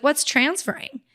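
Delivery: high, puzzled "what's transferring?"; puzzled question. Retold or imitated. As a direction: ask it wide-eyed, totally lost. Naive question to mentor.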